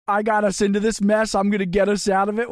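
quoting Paul X. Retold or imitated. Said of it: "isn't that what he said".

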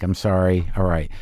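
low, grudging but sincere apology; reluctantly making peace, acted out; retold reluctant apology. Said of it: "very reluctant but genuine apology".

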